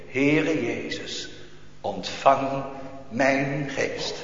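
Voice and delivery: slow, hushed plea; soft dying prayer. Acted. Dying believer praying softly to Jesus, hushed. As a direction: whisper it like a last prayer.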